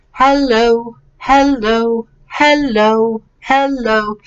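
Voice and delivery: evenly repeated "hello", dying away at the end; echo imitation. Shown as a demonstration. Teacher demonstrates what echo means, echo imitation. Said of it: "The word repeats back to you".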